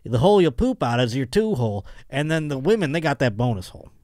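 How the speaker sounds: lightly put-on Southern voice; Southern accent. Host explaining the holes in order, light Southern accent. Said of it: "I made 'em all Southern".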